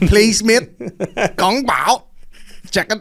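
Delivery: high, loud order called out; mock shout. Retelling an order at the Asian stall, mock shouting. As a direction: holler it like a food order. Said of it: "Like, shouted this guy".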